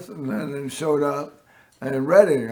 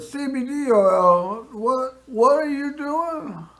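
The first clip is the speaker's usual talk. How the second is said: much higher, slow disbelieving question; slowed, pitched-up what are you doing; incredulous nurse; 8 semitones higher, slower than usual. Retold or imitated. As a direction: play the nurse who can't believe what she's hearing. Nurse questions the CBD use.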